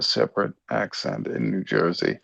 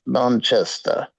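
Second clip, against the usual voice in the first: put-on nasal Manchester accent, drawn out; rough imitation of a Manchester accent; attempted Manchester accent; slower than usual. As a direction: have a go at saying it like a Mancunian. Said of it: "trying to talk with that nasal Manchester".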